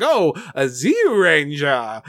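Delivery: slow, drawn-out delighted discovery; mock excitement. Dora Sphinx sliding down at Boy, mock excitement. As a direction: imitate a villain savoring a thrilling find. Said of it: "genuinely excited as he slides down".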